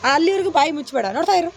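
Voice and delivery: loud, open-mouthed line reading; loud projection. Shown as a demonstration. Director demonstrates the line to child actor, loud. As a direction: throw the line out strongly. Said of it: "voice ಇನ್ನೂ ಜೋರು ಮಾಡು".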